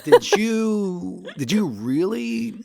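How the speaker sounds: did you really, in shock; incredulous. Retold or imitated. Acted incredulous inner reaction.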